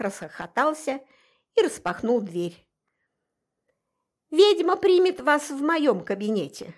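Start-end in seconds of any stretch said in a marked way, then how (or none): 4.3-6.7 a proclamation, a bit raised; loud announcement. Acted. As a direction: announce it to the waiting room. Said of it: "громко возвестил он".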